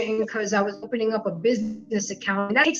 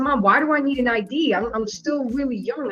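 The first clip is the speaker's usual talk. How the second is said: ordinary talk, nothing marked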